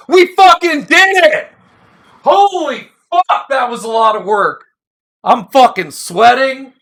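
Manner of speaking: real triumphant yell after finishing the job; excited whoop. Real, not acted. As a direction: reader celebrating the end of a long read, shouting with joy. Reader celebrates finishing long reading.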